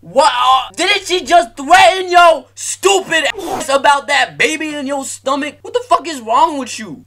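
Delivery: high, loud outraged shout at the screen; outraged yell. Real, not acted. Streamer yelling at the cartoon mom, outraged shout. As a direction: yell in disbelief at how dumb she is.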